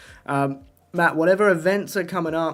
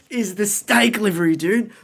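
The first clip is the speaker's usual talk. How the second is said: mock British accent; 5 semitones higher than usual. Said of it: "judge my least favorite livery in a British accent".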